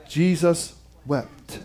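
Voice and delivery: Jesus wept, said softly and slowly; hushed and slow. Acted. Preacher reads the shortest verse to the congregation, hushed. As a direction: let the words sink, quiet.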